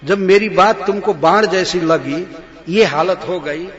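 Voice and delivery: loud, angry queen recites and taunts; angry shout. Acted. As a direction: shout it in rage. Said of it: "क्रोध में होता है तो बहुत जोर से बोलने लगता है". (क्रोध में ज़ोर से बोलती रानी)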